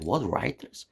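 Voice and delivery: exasperated Kennedy. Retold or imitated. Kennedy yelling at the CIA director, hammed-up exasperated outburst. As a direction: play a harried president losing patience. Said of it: "Kennedy was like".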